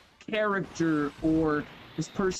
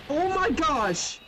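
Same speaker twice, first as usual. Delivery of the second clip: squeaky mock voice; 7 semitones higher than usual. Keeps the squeaky put-on voice.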